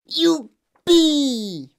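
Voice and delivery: loud, high whoop of joy; old man's ecstatic cheer; jubilant shout. A narrator's reading. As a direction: explode with joy, long and high. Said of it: "et cria".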